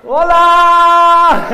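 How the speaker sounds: high, loud delighted shout; excited greeting. Real, not acted.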